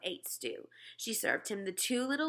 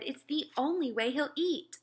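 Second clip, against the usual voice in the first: pleading mother; 7 semitones higher than usual. Acted. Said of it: "my mother said".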